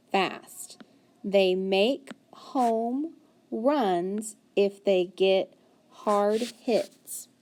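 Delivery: slow, word-by-word reading; slow read-aloud. Acted. Teacher reading the story slowly to students.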